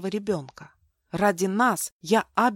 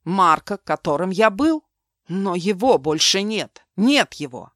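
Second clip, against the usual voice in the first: angry outburst; 7 dB louder than usual. Acted. Mark rages at Milena.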